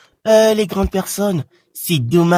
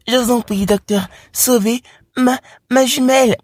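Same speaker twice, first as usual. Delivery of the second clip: higher mock plea; a touch of a begging mum; pleading mother; 6 semitones higher than usual. Mother begging doctor to save her daughter, higher voice.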